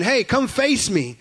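lightly voiced giant calling you out; Goliath taunt.

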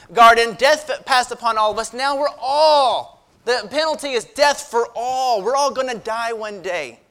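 forceful sermon delivery; emphatic preaching. Real, not acted. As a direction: press the warning on the congregation.

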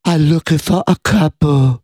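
slow halting simple voice; Elephant Boy impression. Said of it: "Let me hear your Elephant Boy".

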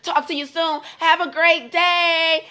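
mock gushing sign-off. Reading out a client's gushing text, mock cheery. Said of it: "And she's like".

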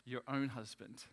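"own" held and set apart, measured; stress on "own". Shown as a demonstration. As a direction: repeat it with deliberate weight on "own". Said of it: "I want to emphasize the word own".

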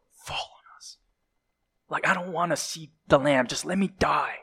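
a hushed, frightened plea to die; terrified whisper. Acted. Terrified people beg the mountains to fall, in a frightened whisper. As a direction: whisper it like someone begging to hide from the Lamb.

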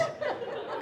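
quick, voiceless chuckle; real amused chuckle; short laugh. Real, not acted. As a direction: let a small laugh escape. Laughing at own flag joke.

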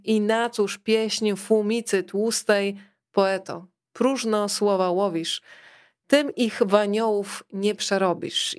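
slow, measured verse reading; poem recital. Acted. Author reading the fable's poem to listeners, slow recital. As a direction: recite each line slowly, weighing the rhymes.

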